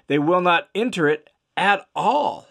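"not enter it at all" pitched high for emphasis; doubly emphatic. A narrator's reading. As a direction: drive home "They will not enter it at all". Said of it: "he's doubly emphatic about this".

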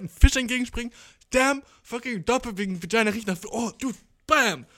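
high, loud, hyped telling that slams the punchline; excited punchline. Shown as a demonstration. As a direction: sell the joke with full energy. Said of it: "so musst du das erzählen".

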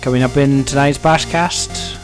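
loud, punchy show-intro read; announcer voice. Acted. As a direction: present it like a radio host. Podcast intro read over music.

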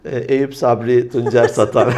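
slow, loud, laughing words. Real, not acted. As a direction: laugh through the punchline. Laughing at the cologne joke.

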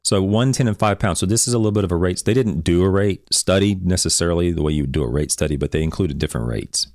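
talking around a cough drop; words round a lozenge; cough drop in mouth. Real, not acted. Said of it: "talking with a cough drop in my mouth".

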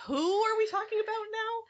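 high-pitched, baffled listener's question; acted-out confusion. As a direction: ask it as if completely lost, pitched high. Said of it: "You're gonna get confused".

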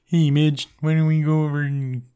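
lightly voiced dopey jock; mild goofy big-guy voice; Moose impression. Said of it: "Kermit the Frog pitched down".

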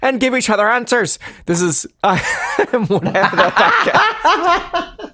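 lightly put-on Irish lilt; Irish accent. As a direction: slip into a laughing Irish accent. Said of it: "tried to leap into an Irish accent".

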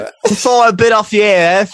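high-pitched boxer impression; Mike Tyson. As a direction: squeak out an apology as the boxer. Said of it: "give us your best Mike Tyson impression".

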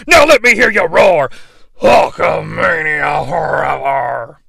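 slow roaring wrestler shout; heroic rallying shout. Acted. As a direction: roar it to the crowd. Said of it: "repeats the promo catchphrase".

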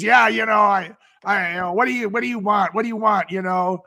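lightly imitated gruff, busy buyer; whiskey voice. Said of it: "he says in this, like, whiskey voice".

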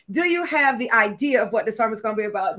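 lightly voiced colleague asking; colleague's question. Production colleague asking the preacher about the sermon, measured question. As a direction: put it as a measured, checking question. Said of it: "She's like".

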